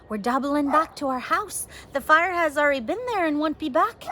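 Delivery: mildly urgent firm answer. Acted. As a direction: hurry your sister along. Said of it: "Fiona answered urgently".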